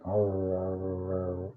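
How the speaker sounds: low, soft growling arr sounds; black dog eating growl. Retold or imitated. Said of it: "they eat like".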